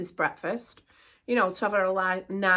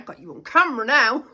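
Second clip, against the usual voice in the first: laughing retort; 6 dB louder, faster than usual. Retold or imitated. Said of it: "I'm like".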